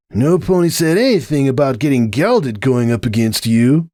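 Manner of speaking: pained stallion voice; Hoops character voice. A narrator's reading. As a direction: complain through the pain.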